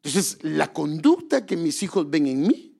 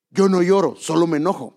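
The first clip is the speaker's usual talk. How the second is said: mock childish protest; 2 semitones higher, 7 dB louder than usual. Voicing a childish church member.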